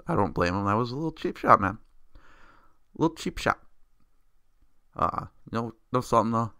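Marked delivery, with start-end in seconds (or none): 2.2-3.6 mocking slow repeat. Mocking repeat of own words.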